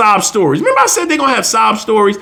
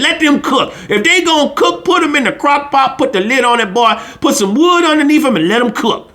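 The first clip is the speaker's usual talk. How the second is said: imitating dad; 3 semitones higher than usual. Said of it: "That's how my dad talked".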